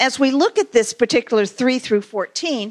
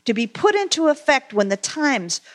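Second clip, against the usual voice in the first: scripture reading. Acted. Reads scripture aloud.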